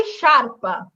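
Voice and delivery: শার্পা opening on a sh sound; sh pronunciation. Shown as a demonstration. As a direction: read the s-c-i of শার্পা as one sh. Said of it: "এটাকে আমরা পড়ি". (শার্পা, শুরুতে 'শ' ধ্বনি)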